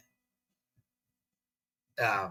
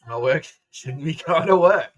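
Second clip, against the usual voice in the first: mock refusal; 5 semitones higher, 8 dB louder than usual. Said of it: "Fucking told him".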